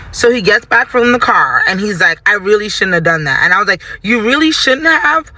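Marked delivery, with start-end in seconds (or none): 4.0-5.3 high, drawn-out questioning retort; incredulous echo. Retold or imitated. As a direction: throw it back slowly, rising in disbelief. Throws his admission back as question.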